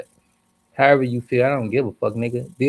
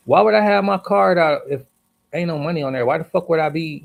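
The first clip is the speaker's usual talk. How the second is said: high, loud, indignant comeback; pissed off retort; 4 semitones higher, 3 dB louder than usual. Retold or imitated. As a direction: fire it back at the clerk, fed up. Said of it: "this how I'm talking, 'cause I'm pissed off".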